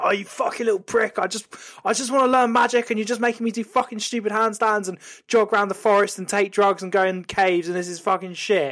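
high, whining mock rant; all angry. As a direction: act out a pent-up outburst. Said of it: "fucking all angry again".

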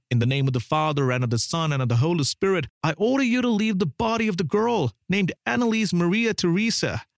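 commanding priest. Acted. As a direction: order the demon out with priestly authority. Narrator voices exorcist's command.

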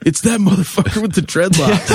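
high-pitched mock shout from the stage; mock angry callout. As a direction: imitate a furious singer calling someone out. Singer halts show, singles out culprit.

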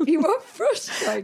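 "are" stretched high and slow, laughing; slow emphatic "are", amused; stress on are. Shown as a demonstration. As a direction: lean on "are" in "You are frustrated".

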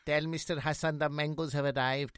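lightly imitated Pakistani caller's accent; a hint of a secretive caller's accent; high-pitched accented caller. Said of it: "this guy with this high-pitched voice".

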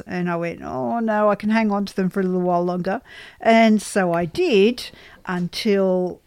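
lisping. Real, not acted. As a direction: lisp from a missing tooth. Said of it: "why I am lisping".

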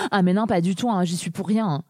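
lightly voiced scheming teenager denying; a hint of a sly teen girl playing innocent. Host voices a scheming teen girl denying any blame, lightly. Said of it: "je prends une voix d'adolescente volontairement".

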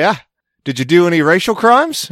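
high, lilting put-on British-Aussie accent; mock posh accent. Host voicing outsiders questioning Australians, high mock posh accent. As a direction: ask it in a prissy put-on accent. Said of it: "They'll say".

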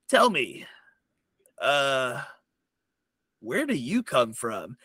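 pirate sweet-talking a stranger; gnome pirate flirting. Acted. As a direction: charm them, leaning in. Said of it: "And he goes".

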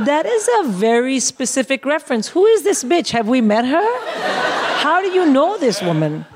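outraged at being called a Karen; mock outrage. Mum rounding on her son, shrill mock outrage. Outraged reaction to son's jibe.

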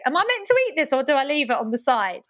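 timid guest unsure about the lime; bashful guest. Retold or imitated. The speaker imitating a bashful James at dinner. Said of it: "too bashful to say".

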